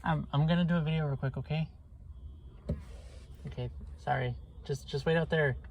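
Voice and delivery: breathless, rushed words; out of breath. Real, not acted. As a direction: still panting from the run. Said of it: "I'm a little out of breath".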